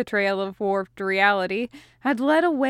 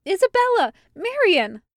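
high, loud call across a crowd; 10 semitones higher, 5 dB louder than usual. A narrator's reading. Meryl calling to the sisters over the crowd, loud call. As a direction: shout their names over the market noise.

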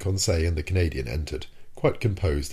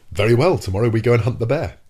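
louder, jaunty, breezy confidence; mock bold hunter; 5 semitones higher, 8 dB louder than usual. Nemo mocking a carefree bear hunter, breezy and loud. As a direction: play the fearless hunter, a little higher.

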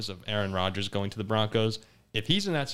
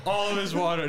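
high, slow words through laughter; cracking up while reporting it; laughing; 7 semitones higher than usual. Real, not acted. Host tells how Jack spat his water, laughing. Reacting to a spit-take.

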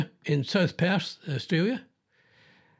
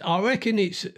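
put-on Australian accent; 3 semitones higher than usual. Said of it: "try and do an Australian".

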